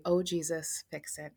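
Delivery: soft, trailing murmured prayer; softly praying. Retold or imitated. Colleague softly praying over her crying friend. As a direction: quietly pray it under your breath. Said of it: "said softly".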